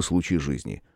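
ordinary delivery

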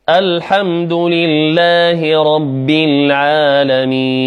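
slow, sustained tajweed recitation; Quranic recitation. Shown as a demonstration. Teacher recites the verse for students to repeat, measured recitation. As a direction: recite it measured, drawing out the long vowels. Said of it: "أستمع".

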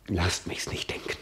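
whispered, shrinking from the thought; pained whisper. Acted. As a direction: pull back into a whisper. Soliloquy, recoiling.

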